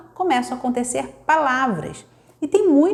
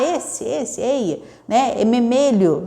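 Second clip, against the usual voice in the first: put-on toddler voice; slower than usual. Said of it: "Aí ele vai apontar".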